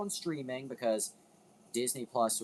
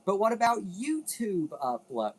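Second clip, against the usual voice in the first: higher, louder eager question; imagined viewer question; 8 semitones higher, 5 dB louder than usual. Retold or imitated. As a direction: voice a curious viewer asking. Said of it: "you're probably also thinking".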